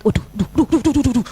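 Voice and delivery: mouthed clock ticks; rapid spoken tick-tock noise; imitated ticking. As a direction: tick away like a racing clock. Imitates clock during half minute.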